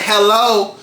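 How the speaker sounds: mock impatient guest calling out; a lightly voiced older woman demanding service; impatient hello. Older guest claps at the server, a mock impatient hello. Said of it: "She clapped her hands like".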